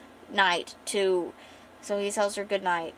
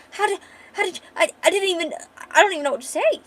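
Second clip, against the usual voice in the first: stunned surprise; 9 semitones higher, 6 dB louder, much faster than usual. Retold or imitated. Character overwhelmed by gift.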